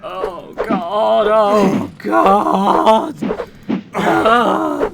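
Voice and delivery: terrified crying out. Real, not acted. Crying out after the attack.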